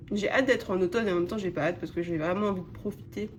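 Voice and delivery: talking with food in mouth; mouth full. Real, not acted. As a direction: talk through a mouthful of food. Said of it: "Je parle la bouche pleine comme un gros porc".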